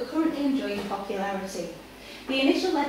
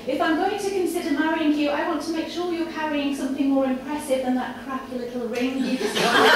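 lightly voiced haughty lady, a bit higher and louder; Victoria's haughty voice; 4 semitones higher, 4 dB louder than usual. Victoria mocking her suitor's cheap ring, haughty and amused. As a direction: scorn the ring, breaking toward a laugh.

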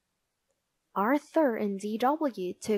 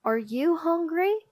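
tag question; 7 semitones higher than usual. A narrator's reading. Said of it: "asked Arthur".

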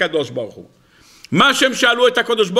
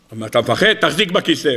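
much lower, calm divine voice; deep voice of God; 5 semitones lower than usual. Acted. God reassures frightened Moses, low calm voice.

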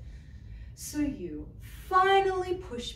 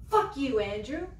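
firm curse. Acted. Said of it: "I mean it".

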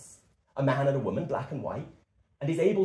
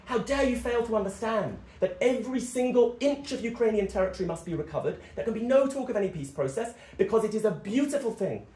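higher-pitched mock parliamentary outrage; lightly acted House of Commons indignation; indignant Tory politician; 5 semitones higher than usual. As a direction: imitate a politician declaiming indignantly. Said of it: "Tory politicians stand up in the House of Commons and say".

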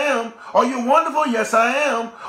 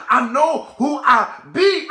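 shouted declaration; slower than usual. Real, not acted. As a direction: proclaim it slowly at full voice. Preacher shouts her declaration.

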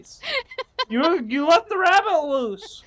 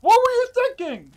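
higher, louder exasperated yell; angry shout; 10 semitones higher, 8 dB louder than usual. Real, not acted. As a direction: scold her at full voice. Yelling at the companion.

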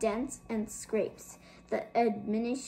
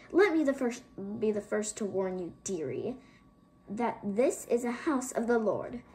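spiteful. Acted. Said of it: "in a spiteful tone".

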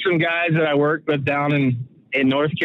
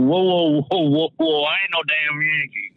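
mock Southern protest. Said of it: "give me a hard time about being a Yankee".

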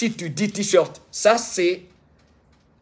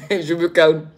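calming down. Real, not acted.

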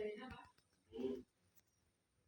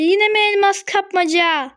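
higher, stress on "yine", falling at the end; exasperated repeat; 4 semitones higher than usual. Real, not acted. Gamer groaning at another diamond mode, exasperated. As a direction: groan out "yine" like it's the hundredth time.

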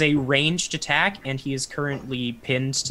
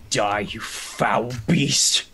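1 GM voicing Ezek; 3 semitones lower, much slower than usual. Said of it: "he walks over towards the creature and goes".

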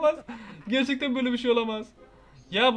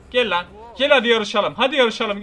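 louder, daring the chaser to race; loud taunt; 6 dB louder than usual. Real, not acted. Taunting the chasing game character, loud and daring. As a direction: call the enemy on, loudly.

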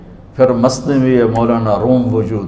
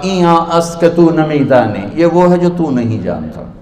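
arrogant. Retold or imitated. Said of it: "बड़े तकब्बुर से कहा".

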